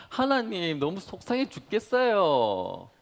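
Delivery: slow, whiny imitation of a frustrated youth; impersonating a young man. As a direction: mimic the young man's prayer, drawn out. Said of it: "너무 비슷하게 제가 성대모사를 한 것 같아서".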